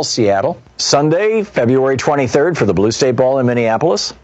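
brisk, lifted radio announcer read; polished event plug; promo read. Acted. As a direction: sell the book tour dates, listing them clearly. Reads a book tour promo.

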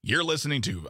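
lightly attempted radio announcer impression; half-hearted go at a radio host's station ID; Todd Michaels. Host imitating a colleague's radio voice, tentative announcer. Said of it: "trying to do a Todd Michaels impression".

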